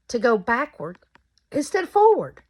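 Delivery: hiccups breaking the words; talking through hiccups; hiccuping. Real, not acted. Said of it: "I'm sorry, I keep hiccuping".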